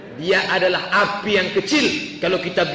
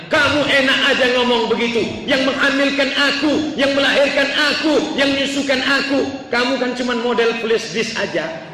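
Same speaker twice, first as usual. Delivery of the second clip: high-pitched acted tirade of a furious wife; imitating an angry wife's outburst; raging wife; 6 semitones higher, 3 dB louder than usual. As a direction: scold the husband in rising indignation. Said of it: "Ngamuk istrinya".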